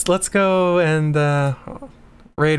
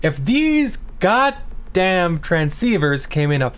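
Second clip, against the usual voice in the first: mild frustration. Real, not acted. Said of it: "I am so mad".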